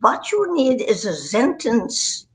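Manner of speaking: slow, imitated German accent; teacher-like German accent. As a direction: spell it out slowly in a German accent. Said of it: "So he says".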